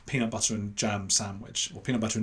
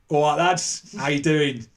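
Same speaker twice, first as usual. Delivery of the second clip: louder, higher working-class London greeting; 4 semitones higher, 5 dB louder, slower than usual. Retold or imitated. Boy greeting two football fellas, put-on London voice. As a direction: put on a matey old London accent. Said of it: "that old sort of London voice".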